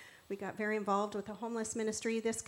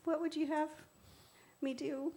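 high, loud, eager offering to God; Talia; 7 semitones higher, 5 dB louder than usual. Retold or imitated. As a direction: imitate an earnest volunteer calling up to the Lord. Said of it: "she was just like".

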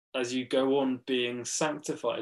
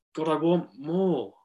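lightly voiced stroppy complaint; a touch of childish strop. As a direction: grumble mildly, like a child demanding more. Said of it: "kind of thing a stroppy child says".

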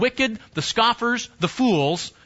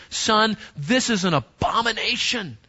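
emphatic fatherly warning. Acted. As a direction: warn a son solemnly, setting the last words apart. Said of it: "He's raising his voice a bit. He's being emphatic".

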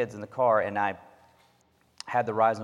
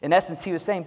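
ordinary delivery

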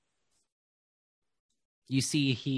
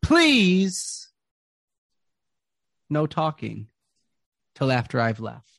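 Jarrell the ringmaster; 3 semitones higher, 7 dB louder than usual. Acted. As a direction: hype the crowd like a carnival host. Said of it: "He goes".

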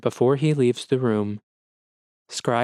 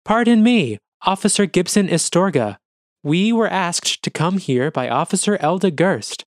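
placating; 6 semitones higher, 4 dB louder than usual. Acted. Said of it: "in an attempt to defuse the situation".

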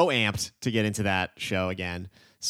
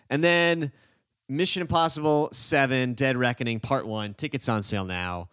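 monster truck announcer; 3 semitones higher than usual. Real, not acted. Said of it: "You also sound like a, a monster, monster truck announcer".

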